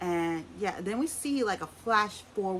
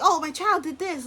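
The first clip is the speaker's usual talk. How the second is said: high, loud gushing parent voice; mock bragging mom; 9 semitones higher, 7 dB louder than usual. Vlogger mocking Kim boasting about her son. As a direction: parody a mom who turns it to her kid.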